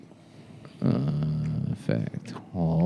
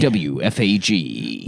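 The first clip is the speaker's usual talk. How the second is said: radio announcer; 5 semitones lower, 3 dB quieter, slower than usual. Acted. Radio call letters.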